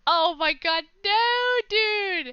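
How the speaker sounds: loud, high panicked squeal; flustered outburst. Real, not acted. Streamer panicking about doing a French accent, shrill yelp. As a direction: freak out at being asked.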